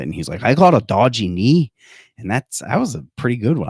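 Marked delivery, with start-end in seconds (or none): 0.4-1.7 lightly put-on Aussie or English pilot accent; Australian or English accent. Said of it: "this Australian or English helicopter pilot".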